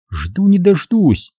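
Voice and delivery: dry smirk, drawn out slowly. Acted. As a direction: let a smirk into the words. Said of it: "усмехнулась Ланори".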